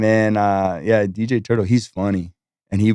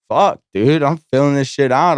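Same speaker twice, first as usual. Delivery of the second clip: higher and louder, hyped-up disbelief; excited outburst; 5 semitones higher, 3 dB louder than usual. Retold or imitated. New host told he starts in an hour, excited outburst. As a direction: blurt it like you just got thrown in. Rushed into work on first day.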